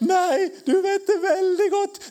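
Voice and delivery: high emphatic rebuttal. Acted. Preacher answering a doubting believer, high and emphatic. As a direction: cut in high and sure.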